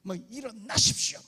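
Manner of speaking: high, loud revival preacher's call; Cho Yong-gi's preaching accent. Retold or imitated. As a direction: mimic the famous pastor's altar call. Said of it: "조용기 목사님 그거 있잖아요, 액센트". (조용기 목사님 흉내 내는 높은 설교 억양)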